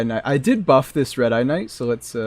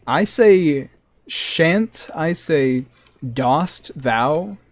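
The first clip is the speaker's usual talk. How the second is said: mock posh nerd; 2 semitones higher, much slower than usual. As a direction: ham up a stuffy aristocrat. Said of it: "five leagues of nerdiness above that".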